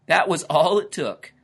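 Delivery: high-voiced storyteller relishing the tale; storytelling lizard character. A narrator's reading. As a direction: tell the tall tale in a high, lively character voice.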